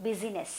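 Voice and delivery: busyness drawn out very slowly, each syllable clear; slow contrast word. Shown as a demonstration. Teacher contrasting for students, slowly drawn out. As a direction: stretch busyness out slowly to set it apart.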